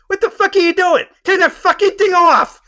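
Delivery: high, loud mock furious yell; hammed-up outraged tirade; imitating Pesci yelling. Pesci being filmed off the bus, mock furious yell.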